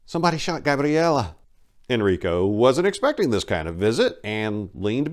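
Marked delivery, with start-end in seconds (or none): 0.0-1.3 holding back tears, pitched higher; a tremble of shock, still contained; teary. Acted. Maria telling Enrico the news, near tears. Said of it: "tears welling in her eyes".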